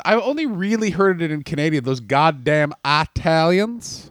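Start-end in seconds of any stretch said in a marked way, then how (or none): 1.8-4.1 slow drawled Southern grumble; Southern accent. Retold or imitated. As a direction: curse slowly in a Southern accent. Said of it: "that was a southern accent".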